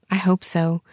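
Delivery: soft unvoiced whisper of hope; hushed, hopeful aside. Real, not acted. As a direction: breathe it out in a whisper. Hoping, unsure of own peace.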